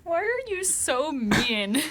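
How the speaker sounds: high, slow, laughing; laughing whine. Real, not acted.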